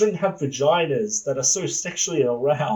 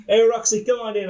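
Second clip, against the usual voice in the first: loud, higher sleazy greeting; sleazy boss; 7 semitones higher, 4 dB louder than usual. Acted. Big Daddy calls Roxy into his office, sleazy. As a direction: play it sleazy, over-friendly. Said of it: "just gonna play this sleazy".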